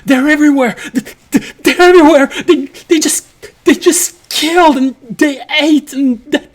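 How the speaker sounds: frantic high screaming in terror; panicked screaming. Acted. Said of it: "he just starts screaming in panic".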